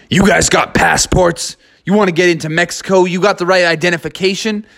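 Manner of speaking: quick suspicious questioning guard; a hint of a wolverine guard grilling the bears; wolverine border guard.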